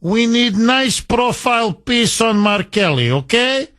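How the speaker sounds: mock Soviet handler. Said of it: "like in the old Soviet Union".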